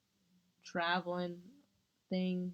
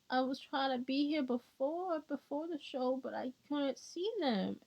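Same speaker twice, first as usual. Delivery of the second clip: put-on high-pitched eager boy voice; boy fan; 5 semitones higher than usual. Fan boy asking her to pass a gift, eager and high. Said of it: "the boy was like".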